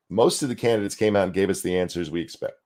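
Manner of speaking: hiccuping mid-sentence; hiccups. Real, not acted. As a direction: speak while fighting hiccups. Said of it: "I have full-on hiccups now".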